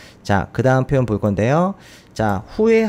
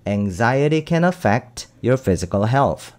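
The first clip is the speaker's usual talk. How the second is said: slow reading; much slower than usual. Shown as a demonstration. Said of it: "rereading the sentence slowly".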